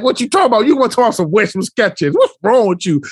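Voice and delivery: sassy fifth grader. Retold or imitated. Student confronts teacher about Skechers, mock sass. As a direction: challenge him like an offended child. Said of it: "she got mad attitude".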